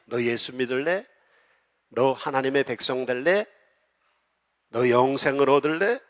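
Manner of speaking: preacher lightly voicing God's call. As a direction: gently voice God's inviting question. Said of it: "그러니까 하나님이".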